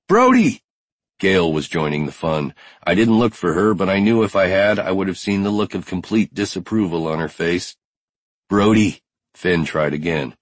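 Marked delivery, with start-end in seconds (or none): 0.1-0.6 very high, loud yell of a name; shrieked call. Acted. Gail yells after Brody to stop, high loud shout. Gail joins in calling disapprovingly. 8.5-9.0 louder, insistent call of a name; urgent call. Acted. Finn tries to stop Brody, insistent louder call.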